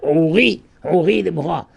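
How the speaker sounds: "Ouri" rising to a stressed ri, "Déborah" stressed on ra; final-syllable stress. Shown as a demonstration. Rabbi repeating the verse to show "Ouri" stressed on its last syllable. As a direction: say "Ouri" with the weight on ri. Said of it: "il est sur la deuxième".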